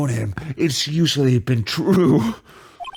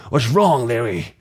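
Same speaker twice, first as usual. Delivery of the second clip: brooding. Acted. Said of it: "Remember, I'm brooding".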